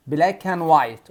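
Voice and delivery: "Black and white" with and said as "an", no d; linked "black an white", drop the d; d dropped. Shown as a demonstration. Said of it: "شيل الدي".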